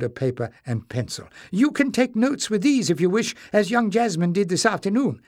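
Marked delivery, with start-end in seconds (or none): 1.5-5.2 put-on higher, fussy old librarian voice; a flustered old librarian apologising; old librarian Joseph. Old librarian apologises to the king, higher and fussy.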